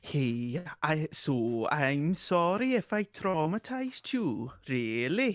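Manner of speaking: Welsh accent attempt. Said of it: "a Swedish Welsh Geordie".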